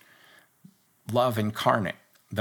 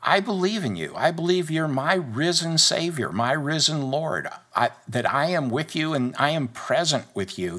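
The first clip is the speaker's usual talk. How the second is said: modelling a heartfelt prayer, higher and sincere; sample prayer; 3 semitones higher than usual. Shown as a demonstration. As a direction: pray it for the listener to repeat. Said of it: "pause this and just say".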